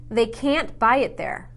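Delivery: "can't" with a long, stressed A. Shown as a demonstration. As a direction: stretch the A in "can't" out. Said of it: "I said can't".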